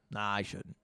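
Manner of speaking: quiet. Real, not acted. Debating aloud whether to leak it.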